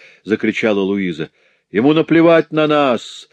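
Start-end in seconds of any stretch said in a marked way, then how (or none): 1.7-3.3 much higher, louder frenzied cry; frantic shout. Acted. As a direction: scream it like a man gone mad. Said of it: "отвечал обезумевший гранильщик".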